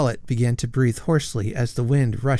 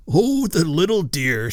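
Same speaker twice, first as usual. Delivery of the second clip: rapturous; 6 semitones higher, 4 dB louder than usual. Acted. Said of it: "said Sir Hugo in rapture".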